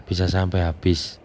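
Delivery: talking around a cigarette; cigarette in mouth. Real, not acted. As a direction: cigarette between the lips while speaking. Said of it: "saya sambil ngerokok".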